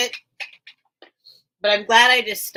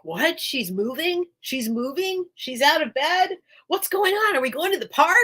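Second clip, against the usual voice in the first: imitating an eager dog, questions climbing higher; excited dog; 7 semitones higher than usual. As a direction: voice the dog's growing excitement in rising questions. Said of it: "my dog is like".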